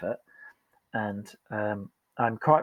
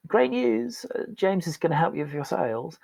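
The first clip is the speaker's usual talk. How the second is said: bright, much higher sing-song cheer; chirpy announcement; 7 semitones higher than usual. Retold or imitated. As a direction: sell bad news as great news. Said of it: "So what they heard".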